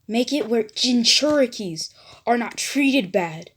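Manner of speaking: a brash, pushy voice urging him on; gruff rally. Acted. Bakugo in the mindscape pushes Naruto, brash rally. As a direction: shove him into action, impatient.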